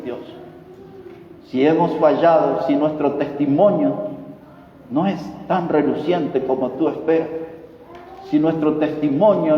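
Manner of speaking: measured, devout prayer voice; closing prayer. Acted. Pastor praying over the congregation, devout. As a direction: lead the congregation in prayer, earnest and steady.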